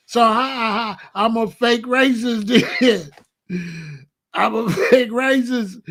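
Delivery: laughing through the words; can't hold back the laugh; giggling self-mockery. Real, not acted.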